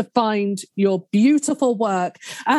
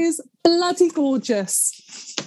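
teary; 5 semitones higher, slower than usual. Real, not acted. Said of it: "a wobbly voice and a couple of tears".

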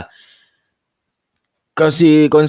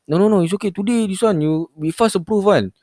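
scam caller voice; 8 semitones higher than usual. Retold or imitated. Caller soothing.

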